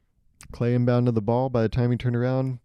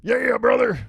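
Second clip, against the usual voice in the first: put-on high, throaty bro-fan voice in an odd accent; hammed-up accent of an overexcited sports fan; 6 semitones higher than usual. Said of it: "why I gave him that accent".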